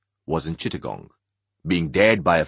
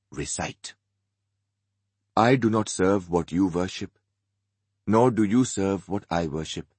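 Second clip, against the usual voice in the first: measured, lowered scripture reading; solemn recitation. Acted. Alsana recites the surah.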